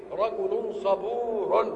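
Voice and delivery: صبور stretched slowly; drawn-out example. Shown as a demonstration. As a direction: dwell on صبور as a model phrase. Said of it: "تقول إيه؟".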